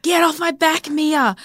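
high, strained mock urgency; frantic order, retold. Mother to daughter climbing on her mid-contraction, retold frantic order. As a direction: act out frantic pleading, pitch way up.

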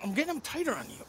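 breathless from dressing him; out of breath. Real, not acted. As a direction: puff through the words. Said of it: "I'm out of breath".

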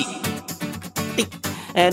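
ordinary delivery

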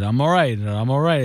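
I'm all right, I'm all right, run together quickly; rushed woozy insistence; retold quick reassurance. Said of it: "This is exactly how I said it".

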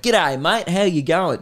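a mock broad Aussie "G'day, mate"; Aussie greeting. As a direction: put on an exaggerated Aussie greeting. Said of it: "She didn't do that".

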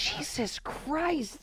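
slow laughing exasperation. Real, not acted. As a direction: laugh it out slowly. Laughing disbelief.

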